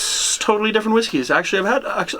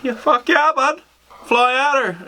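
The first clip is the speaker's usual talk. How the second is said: higher-pitched mock eager buddy; imitating their buddy; 8 semitones higher, slower than usual. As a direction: imitate an enthusiastic yes from a pal. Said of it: "he didn't say it just like that".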